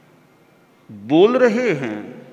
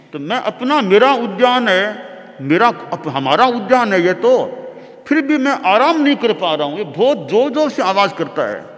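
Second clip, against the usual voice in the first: raised, hurried acted grievance; indignant complaint; 3 semitones higher than usual. King complains to his charioteer about noise in his own garden, indignant. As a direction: press the complaint with mild, mounting indignation.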